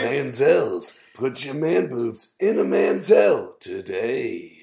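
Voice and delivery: jingle guy. Acted. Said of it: "the jingle guy".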